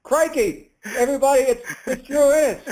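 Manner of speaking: high-pitched put-on Australian accent; Crocodile Dundee accent. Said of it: "practice some of my Australian".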